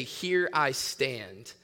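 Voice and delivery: hushed scripture cadence; solemn scripture reading. Shown as a demonstration. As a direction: read it like sacred text, very slowly. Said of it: "Some versions say".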